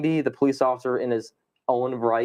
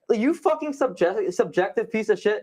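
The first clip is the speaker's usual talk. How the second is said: retold angry rant; 6 semitones higher than usual. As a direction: vent at the officer in an imitated outburst. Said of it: "what pissed me off the most".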